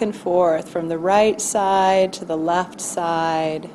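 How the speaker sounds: calm, measured meditation voice with long pauses; guided body scan. Acted. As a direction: gently guide listeners through noticing their body.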